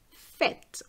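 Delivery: fête with open 'eh' and crisp t; sounded final T. Shown as a demonstration. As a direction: finish fête on a released t. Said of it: "I'm going to pronounce the T".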